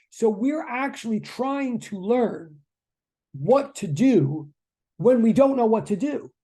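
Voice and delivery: slow, emphatic and sincere; earnest, not sarcastic. Real, not acted. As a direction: spell it out slowly, with real weight. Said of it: "I'm not being sarcastic about that".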